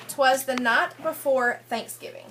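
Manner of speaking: sing-song read-aloud rhyme for a class; lilting picture-book reading voice; story reading to children. Acted. Teacher reads rhyming picture book.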